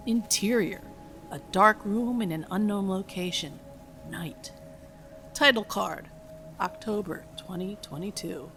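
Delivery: measured, even script reading; screenplay narration. A narrator's reading. Reads film script aloud.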